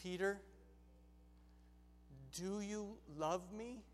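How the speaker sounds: slow, soft question; gentle Jesus. Acted. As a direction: ask tenderly, leaving space between words.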